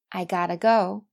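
"gotta" as one word with a flapped t; weak-form gotta. Shown as a demonstration. Teacher models the four pronunciations, weak form. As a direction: link "gotta" straight into "go". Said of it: "看一下这四句的发音".

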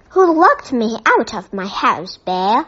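mock-angry demand, not full force; barking. Mister Curry locked out, demanding answers from Bear. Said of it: "he barked".

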